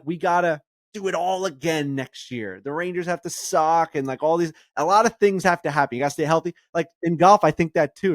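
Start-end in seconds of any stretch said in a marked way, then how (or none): 0.1-3.9 mock resigned fan. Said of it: "when the Islanders lose, I'm like".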